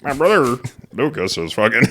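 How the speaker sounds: high mock voice breaking into laughter; bad Botkin voice. Podcaster failing at Isaac's video voice, laughing. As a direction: attempt a high-pitched impersonation, cracking up midway. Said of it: "Botkin voice".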